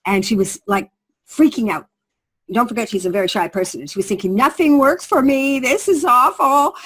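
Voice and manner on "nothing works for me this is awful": sighing that nothing ever works; worried despair. Retold or imitated. Shy woman fretting to herself that nothing works, mock despair. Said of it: "she was all worried about it".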